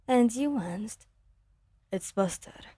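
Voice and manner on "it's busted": grind the words out through a tight jaw; ground out. Acted. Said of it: "he ground out".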